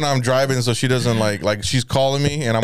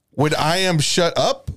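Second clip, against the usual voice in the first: slow, deliberate mock-angry wording; mock anger, word by word; angry English; slower than usual. Boyfriend showing how he talks to his girlfriend, mock-angry English. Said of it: "like, angry".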